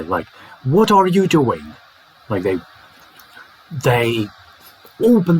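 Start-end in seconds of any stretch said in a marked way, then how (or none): 0.6-1.8 quick, higher "What are you doing?" with every word intact; rapid full form. Shown as a demonstration. Teacher mimics supposed fast speech, rapid full form. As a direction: rush through "What are you doing?" without reducing it. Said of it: "they just say it rapidly".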